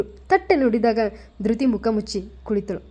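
plain reading voice

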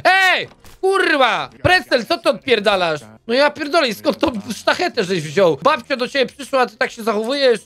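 mock angry shout. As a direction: tell off the misbehaving inmate. Yelling at Precel in game.

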